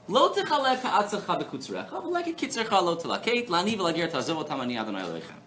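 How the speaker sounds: quoting the verse in a cantillating lilt, speeding up at the end; reciting Hebrew scripture. Acted. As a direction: read the verse like a Torah reading.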